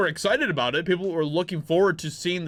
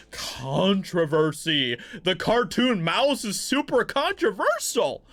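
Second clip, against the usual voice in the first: mock outrage; 2 semitones higher, slower than usual. Vlogger mocking the headline with hammed-up outrage. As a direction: pretend to be scandalised by a cartoon mouse.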